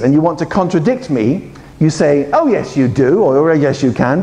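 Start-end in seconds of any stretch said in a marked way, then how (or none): 2.3-3.2 rising "Oh, yes, you do" to contradict; "Oh" lifted, then "yes, you do" pushed back against the claim; insistent contradicting tune; contradiction intonation. Shown as a demonstration. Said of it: "That's contradiction intonation". 3.4-4.2 rising "Oh, yes, you can" to contradict; "Oh" lifted, then "yes, you can" pushed back against the claim; disagreeing tune, stressing "can"; contradiction intonation. Shown as a demonstration. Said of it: "That's contradiction intonation".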